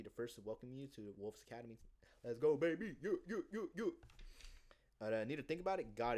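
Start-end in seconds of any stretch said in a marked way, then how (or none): 2.2-3.9 loud, high laughing cheer; laughing victory chant; hype celebration. Retold or imitated. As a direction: whoop it like you just closed the deal. Celebrating closing sale.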